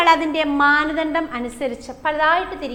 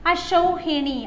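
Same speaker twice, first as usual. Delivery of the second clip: അശൗഹിണി said higher with a falling end; careful dictation; 4 semitones higher, much slower than usual. Shown as a demonstration. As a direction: spell it out for the class. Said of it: "അശൗഹിണി എന്ന് വെച്ചാൽ". (ഉയർന്ന സ്വരത്തിൽ ഉച്ചരിക്കുന്നു)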